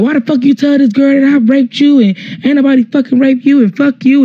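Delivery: run-on mock rant without shouting; retold angry tirade. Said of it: "he just started going off".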